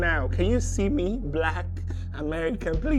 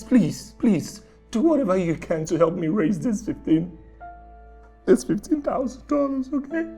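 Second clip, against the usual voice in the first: desperate begging; 3 semitones lower than usual. Acted. Scammer begging for money.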